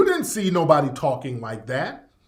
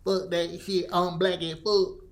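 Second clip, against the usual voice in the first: mocked Florida Caribbean accent; 7 dB quieter than usual. Streamer showing an accent that's not Southern, mock Florida-Caribbean accent. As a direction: imitate a mumbled Caribbean-tinged Florida accent. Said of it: "That's not a Southern accent".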